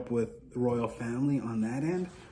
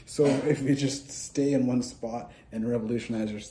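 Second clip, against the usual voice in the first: ordinary talk, nothing marked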